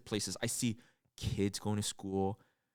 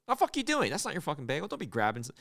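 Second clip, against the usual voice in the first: cashier snapping; 5 semitones higher, faster than usual. Retold or imitated. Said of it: "the waitress or the cashier, whatever, goes".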